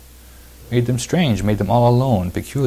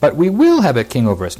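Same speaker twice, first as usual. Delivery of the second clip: high, loud stubborn demand; raised-voice, emphatic refusal; defiant insistence; 8 semitones higher, 5 dB louder than usual. Acted. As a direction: dig in and overrule the prophet. Acting out the people's stubborn demand.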